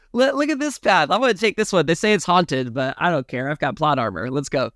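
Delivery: cocky hero voice. Retold or imitated. Acting out Edward's cocky line.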